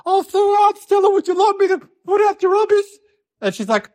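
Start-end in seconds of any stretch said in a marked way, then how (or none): 0.0-2.8 high, sugary fake-helpful voice; playing dad pretending to be helpful. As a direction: put on a sweet helpful act. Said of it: "Dad pretended that he's being helpful".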